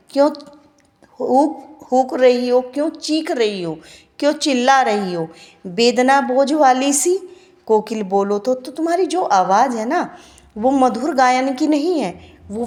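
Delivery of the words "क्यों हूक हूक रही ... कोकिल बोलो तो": plaintive recited questions, rising on the cries; teacher reads the prisoner's lament aloud; poem recitation. Shown as a demonstration. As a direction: plead with the koel as you read the verse. Recites the prisoner pleading with koel.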